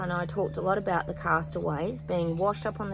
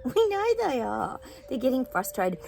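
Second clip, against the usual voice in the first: laughing; 6 semitones higher than usual. Real, not acted. Laughing at angry elites.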